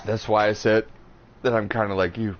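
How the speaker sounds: talking through hiccups; hiccuping between words. Real, not acted. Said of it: "I got the hiccups now".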